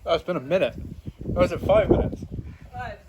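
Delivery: loud, pained after the hot nut; strained by chilli heat. Real, not acted. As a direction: push through the burn, giving up.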